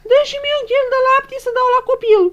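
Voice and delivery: loud call across to the neighbour; mock call to the neighbour. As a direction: shout over the fence to the neighbour. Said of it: "să-i spun lui vecina mea așa".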